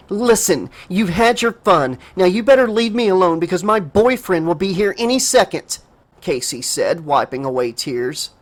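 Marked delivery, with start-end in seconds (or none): 0.1-5.8 through gritted teeth. Acted. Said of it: "clenched her teeth".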